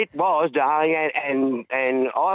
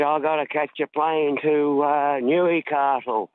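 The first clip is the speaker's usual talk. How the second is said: put-on accent imitating a singer; slower than usual. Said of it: "Yeah, in his accent".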